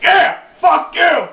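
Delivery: high loud shout, slow and drawn out; high slow yelled taunt. Retold or imitated. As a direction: shout at the kids, daring them. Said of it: "shit, like".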